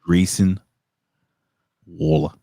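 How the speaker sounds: low, loud drawn name call; ring announcer. Shown as a demonstration. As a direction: boom the name out. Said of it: "let me show you how to do it".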